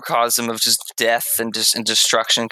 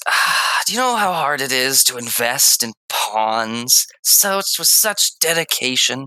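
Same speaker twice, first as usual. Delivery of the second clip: acolyte villain rant; 3 semitones higher than usual. Acted. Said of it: "And then he says".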